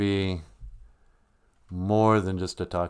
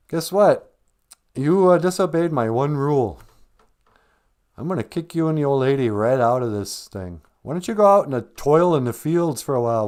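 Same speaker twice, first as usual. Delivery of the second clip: scolding God; 4 semitones higher than usual. Acted. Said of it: "Gitchimandu was like".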